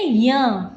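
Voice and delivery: य said slowly as nasal "nya", through mouth and nose; teacher's drawn-out nasal "nya" for य; nasal letter demo. Shown as a demonstration. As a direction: show how य sounds as the nasal fifth letter, "nya". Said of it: "इसको बोलते हैं".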